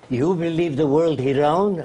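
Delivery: imitated Arab accent, questioning; a light Arab accent on broken English. Arab leader challenging his visitor, in an Arab accent. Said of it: "He said in his accent".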